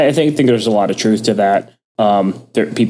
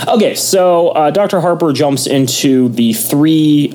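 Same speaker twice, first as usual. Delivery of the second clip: higher-pitched, energized restart; pumped-up energy; 6 semitones higher, slower than usual. Real, not acted. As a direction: pump up the energy to get things moving. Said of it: "pump up the energy".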